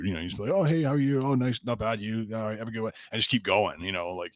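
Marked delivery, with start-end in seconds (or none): 0.5-2.9 higher-pitched friendly chit-chat, easing down; polite small talk. Retold or imitated. Replying to a stranger while walking on, polite and breezy. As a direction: imitate a breezy, polite brush-off. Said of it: "You just don't have to be rude".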